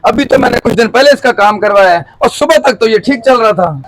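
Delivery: annoyed protest. Acted. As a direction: push back at the mechanic, mildly angry. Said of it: "गुस्सा तो ना करें".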